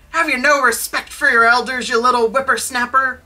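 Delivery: put-on loud, high, scolding Scottish old miser; indignant mock-Scottish outburst; bad Scottish accent. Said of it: "I can't do a good Scottish accent".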